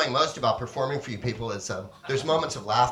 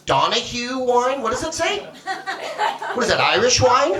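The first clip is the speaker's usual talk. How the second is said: high, loud disbelieving wine questions; mock amazement; 9 semitones higher, 5 dB louder than usual. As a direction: ham up the amazement at the label.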